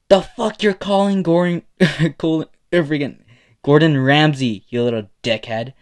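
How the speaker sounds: loud, high, indignant yell; screaming back. A narrator's reading. Bakugo answering the Gordon Ramsay insult, screaming. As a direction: fire back an insulted shout. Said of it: "hear a scream saying".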